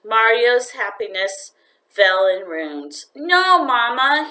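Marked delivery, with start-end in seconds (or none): 3.1-4.3 high, anxious little protest; anxious plea. A narrator's reading. Boy pleading with his mother, anxious. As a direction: beg her not to throw it away. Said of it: "he said anxiously".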